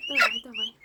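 coaxing. Real, not acted. Coaxing a chick.

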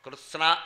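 "కృష్ణ" said as kritsna, with t, s and n sounded; t-s-n cluster. Shown as a demonstration. Teacher breaks down a Sanskrit word, saying "కృష్ణ" as kritsna. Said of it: "తా కింద సావొత్తు, నా ఒత్తు ఉన్నాయి".

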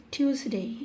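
"টিউসডে" said carefully as "tius-dei"; falling, careful "টিউসডে"; model pronunciation. Shown as a demonstration. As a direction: demonstrate "টিউসডে" as two neat parts. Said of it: "এটার উচ্চারণ হবে টিউসডে".

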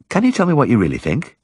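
high, gentle village woman; shy woman's voice. Acted. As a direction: lift the voice for the shy wife. Mrs Cundall voiced.

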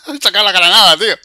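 furious at your own mistake; raging gamer. Real, not acted. Died with wrong weapon.

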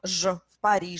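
je, Paris with a buzzing zh; voiced consonant. Shown as a demonstration. Teacher showing the consonant before a vowel, voiced consonant. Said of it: "euh, consonne sonore".

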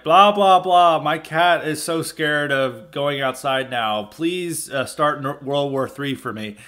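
sneering imitation of a pleading politician; mocking whiny MP. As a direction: parody a crying foreign MP begging for help. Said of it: "you know, like".

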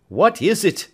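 high, loud, desperate cry; Alfred crying out over the fallen girl; anguished cry. Acted. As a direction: cry it out in agony. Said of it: "cried Alfred".

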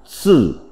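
shì with a falling tone; Mandarin pronunciation shì. Shown as a demonstration. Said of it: "Phiên âm tiếng Trung đọc là".

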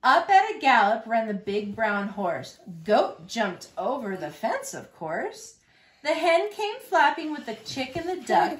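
lively, rhythmic picture-book narration; reading to children. A narrator's reading. Reader shares a truck story with little Longhorns, lively storytelling. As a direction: read the rhyme out clearly for little listeners.

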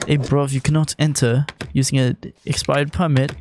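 hammed-up British slang accent. Mock British border guard refusing an expired permit, British accent. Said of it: "did you just do British?".

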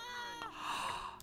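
high, soft, drawn gasp; high-pitched gasp; horrified gasp. Real, not acted. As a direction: suck in breath in horror. Shock at the death scene.

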